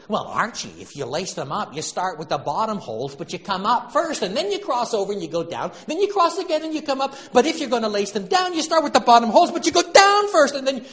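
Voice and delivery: high, loud, fast and rising fussy explanation; whiny wife explaining. Retold or imitated. Edith earnestly explaining bootlaces to Archie, whining.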